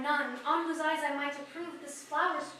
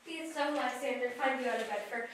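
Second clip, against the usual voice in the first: soft and tender; 5 semitones lower, 7 dB quieter than usual. Acted. Hermia softly to Lysander.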